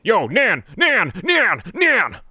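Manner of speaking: loud high calls of the name, repeated; calling out. Real, not acted. Streamer greets arriving viewer Nan, calling out loud. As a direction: call out to her across the room.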